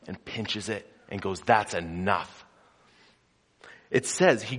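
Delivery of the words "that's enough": calm command. Acted. Jesus muzzling the storm with calm authority. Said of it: "with the commanding authority".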